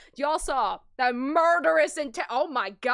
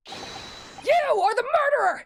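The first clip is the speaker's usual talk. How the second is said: shouted, much higher, slow and emphatic; pointing the finger, full voice; dramatic accusation; 11 semitones higher, 5 dB louder, much slower than usual. Acted. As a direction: hurl the accusation across the courtroom. Attorney's climactic accusation.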